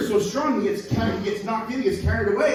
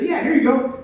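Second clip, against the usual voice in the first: higher laid-back stoner voice; stoned monkey; 8 semitones higher, 3 dB louder than usual. Acted. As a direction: hand it over, chill. Monkey hands over joint.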